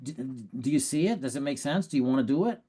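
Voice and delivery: halting, unsure questions rising at the end; hesitant pressure close. Shown as a demonstration. Coach showing the wrong way to close, hesitant. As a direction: ask like you doubt it yourself.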